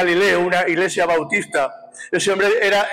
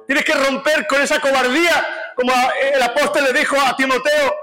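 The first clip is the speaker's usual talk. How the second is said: higher, urgent preaching cry; fervent preaching; 5 semitones higher than usual. Real, not acted. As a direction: rouse the congregation, pushing each line. Preacher building to a climax.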